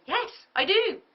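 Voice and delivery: high, loud eager agreement; eager yes. Shown as a demonstration. Coach acting a keen client, high and eager. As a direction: answer like a keen client hooked. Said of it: "you want them to say".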